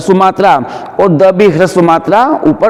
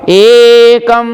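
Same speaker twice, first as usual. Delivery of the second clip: एकम chanted on a raised, held note; higher, sustained chant of एकम; one step higher; 4 semitones higher, 3 dB louder, much slower than usual. Shown as a demonstration. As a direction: lift the pitch and stretch the ए. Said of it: "एक stage ऊंचा होकर के".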